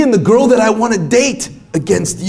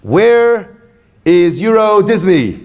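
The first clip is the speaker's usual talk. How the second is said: exaggerated slow question; slower than usual. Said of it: "in the most universal way possible".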